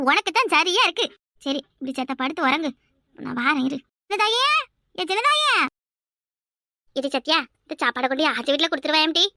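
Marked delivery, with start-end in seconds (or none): 4.1-4.5 mother calling her daughter to come. Acted. Mother calls daughter from inside. 5.0-5.5 a higher, more insistent call of சின்னதாயே; mother calling a second time, more insistent. Acted. Calls again, higher.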